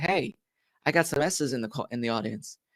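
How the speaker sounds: hushed, gentle, very quiet, eased-off softened voice. Repeating an earlier greeting to the audience: softened tone. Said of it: "I softened my tone".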